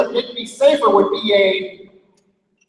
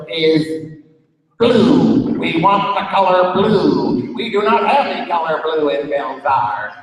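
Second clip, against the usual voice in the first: alien voice; 5 semitones lower than usual. Acted. Alien Pete demanding blue from Bob, lower alien voice. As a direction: speak as a solemn visitor from space. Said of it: "green, shiny alien".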